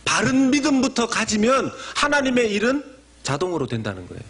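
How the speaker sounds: ordinary delivery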